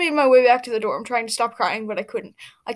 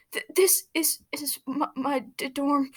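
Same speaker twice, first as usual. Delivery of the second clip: stuttering quietly; 2 semitones higher, 5 dB quieter than usual. Acted. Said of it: "he stuttered quietly".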